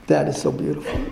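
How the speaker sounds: whispered, breathless with wonder; awed whisper. Real, not acted. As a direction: drop to a whisper of pure awe. Repeated again, whispered.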